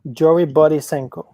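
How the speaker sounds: name said with a Latin accent. Real, not acted. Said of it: "Did I say with a Latin accent?".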